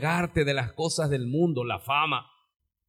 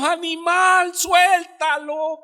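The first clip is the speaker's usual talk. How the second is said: exasperated yell; 11 semitones higher, 5 dB louder, much slower than usual. Acted. Preacher yells at the monkey.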